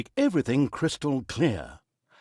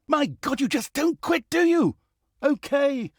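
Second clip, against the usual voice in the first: furious outburst; 9 semitones higher than usual. Acted. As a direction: blow up at the pest who won't quit. Narrator yells at Tanos.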